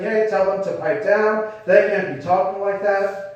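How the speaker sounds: lightly acted indignant complaint; mildly upset. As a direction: imitate upset objectors, only mildly worked up. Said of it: "The Pharisees are getting upset".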